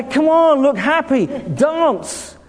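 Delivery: hammed-up nag to dance; nagging leader. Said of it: "I say".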